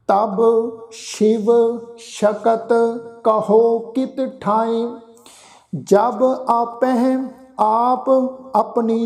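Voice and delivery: slow, measured chanting of the verse; scripture recitation. Shown as a demonstration. Sikh teacher recites Gurbani for the congregation, slow and measured. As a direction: recite each phrase slowly and reverently.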